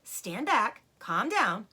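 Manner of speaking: stern father giving orders; firm orders. Acted. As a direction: keep the cubs in line. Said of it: "ordered Mister Fox".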